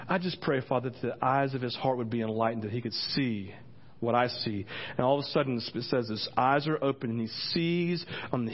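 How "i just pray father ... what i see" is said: calm prayer. Acted. Elijah praying for the servant's eyes, calmly. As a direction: let the voice settle into prayer.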